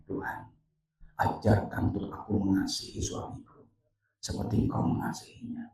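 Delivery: soft, low, hushed prayer; humble prayer. Retold or imitated. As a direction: ask God meekly, imitating her changed prayer. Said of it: "Akhirnya dia doanya". (doa lirih penuh kerendahan hati)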